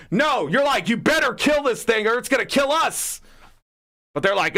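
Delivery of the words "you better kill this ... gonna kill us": shouted order to kill the thing; hammed-up shout to his Pokemon; mock battle yell. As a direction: yell it at your creature mid-fight. Acted trainer yelling at creature.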